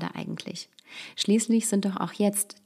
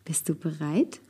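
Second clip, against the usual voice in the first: whispering. Real, not acted. Host cues daughter's joke.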